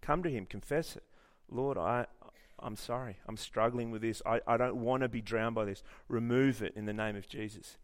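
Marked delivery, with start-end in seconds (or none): 1.5-7.8 soft, halting prayer; humble confession. Acted. Preacher modelling a prayer to the Lord for the congregation, soft and contrite. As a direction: confess it quietly, as if praying privately.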